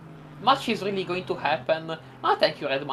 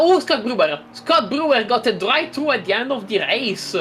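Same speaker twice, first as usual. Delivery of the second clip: loud excited play-by-play; excited call; 3 semitones higher, 4 dB louder than usual. Real, not acted. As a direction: call it out as breaking news. Sudden race news called out.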